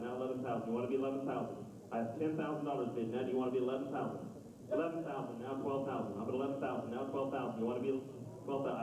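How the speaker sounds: auction bid calling chant; auctioneer. Acted. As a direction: call the bids like an auctioneer. Auctioneer runs bidding chant.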